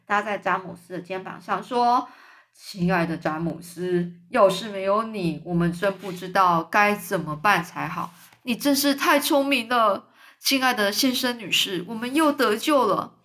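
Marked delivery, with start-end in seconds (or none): 2.5-13.1 grateful and loving toward James; fondly. Acted. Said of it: "很慈爱的". (老蚱蜢慈爱地对詹姆斯说)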